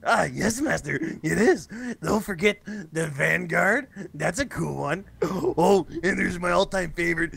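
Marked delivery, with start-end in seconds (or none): 0.1-5.1 Igor. Acted. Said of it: "what is that one?".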